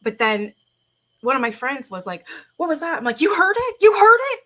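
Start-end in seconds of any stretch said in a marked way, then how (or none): 2.6-3.0 higher alarmed question; startled friend. Retold or imitated. Friend hears the stairs noise, high and startled. 3.2-4.4 high, loud, thrilled disbelief; excited. Retold or imitated. She finally has a witness, high excited squeal. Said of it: "I was so excited that he heard".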